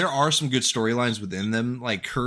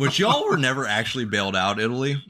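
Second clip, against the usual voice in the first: laughing. Real, not acted. Teasing Italy with a laugh.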